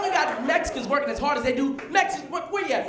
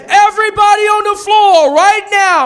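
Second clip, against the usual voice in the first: higher, louder bank robber command; robber's shout; 10 semitones higher, 11 dB louder, slower than usual. Retold or imitated. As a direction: bark it like a robber taking the bank. Robber yells in retold scene.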